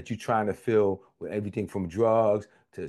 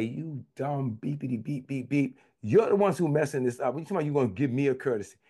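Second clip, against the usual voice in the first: mock-upset rant, raised pitch; upset telling-off; 5 semitones higher than usual. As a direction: tell the caller off with censored insults. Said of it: "I got so upset with this guy".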